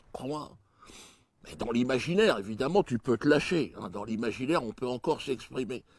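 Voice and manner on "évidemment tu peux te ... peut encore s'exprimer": ordinary talk, nothing marked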